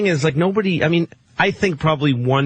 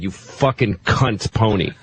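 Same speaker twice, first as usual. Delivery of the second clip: retold angry insult; 6 semitones lower, slower than usual. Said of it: "and I said".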